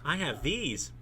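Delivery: soft, sheepish offering; apologetic. A narrator's reading. Woman offering pajamas to the man, soft and apologetic. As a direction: say it softly and apologetically. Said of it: "with an apologetic and ... tipsy smile".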